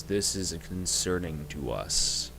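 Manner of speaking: slow, grave giant; lightly voiced storm giant. Storm giant telling the party of his concern, slow and grave. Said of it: "speaks and goes".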